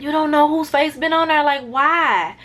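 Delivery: lifted, exasperated questioning; incredulous reaction. Retold or imitated. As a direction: act out baffled disbelief at strangers. Acted disbelief at sleepers on trays.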